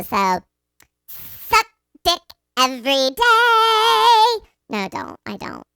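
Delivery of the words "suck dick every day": high, slow, loud ad parody; mock commercial blare. Embarrassing the listeners at work, mock commercial blare. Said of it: "I wanna be that for you".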